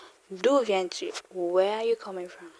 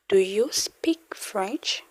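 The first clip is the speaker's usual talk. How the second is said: slow model question; slower than usual. Shown as a demonstration. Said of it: "It will now change to".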